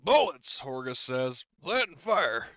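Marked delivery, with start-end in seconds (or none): 0.0-0.6 loud, high acted shout; punchy, raised voice, in character; called-out answer. GM calls out Horgus's answer. 1.6-2.5 loud, high acted shout; punchy raised voice; called-out answer. GM continues Horgus's answer.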